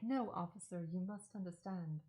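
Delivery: lightly acted dramatic movie heroine with an accent; attempted dramatic accent. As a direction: plead with the officer in a half-hearted put-on accent. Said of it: "I can't actually do an accent".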